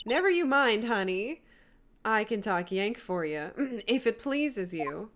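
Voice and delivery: put-on Southern US accent. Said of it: "I don't like doing Southern accents at all".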